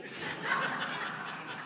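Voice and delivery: soft airy real laugh; hushed laughter; breathy laugh. Real, not acted. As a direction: let out a quiet laugh. Uncle's reveal punchline.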